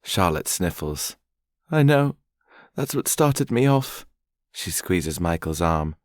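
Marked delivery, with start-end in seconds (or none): 1.7-4.1 high, sniffling voice, calming down; wobbly and tearful, much higher; sniffly young woman. Acted. Charlotte's tearful voice.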